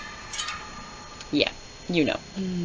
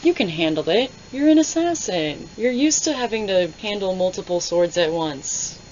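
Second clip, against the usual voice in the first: mocking flirt; 3 semitones higher than usual. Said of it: "mocking the flirt".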